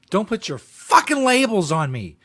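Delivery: slow, mock-indignant rant; hammed-up outraged rant; mocking imitation. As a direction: parody the angry speaker, slowly. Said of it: "host mimics the ranting clip".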